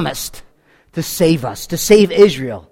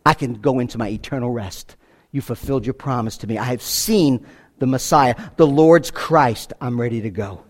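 lower, soft, at rest; hushed Simeon; 8 semitones lower, 6 dB quieter than usual. Retold or imitated. Preacher voicing Simeon's farewell, low and hushed. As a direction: breathe it out like a dying man at peace. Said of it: "exactly the picture of Simeon".

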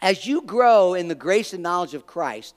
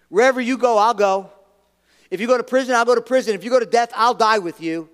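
Peter's bold vow; 3 semitones higher, 4 dB louder, faster than usual. Retold or imitated. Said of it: "he tells Jesus".

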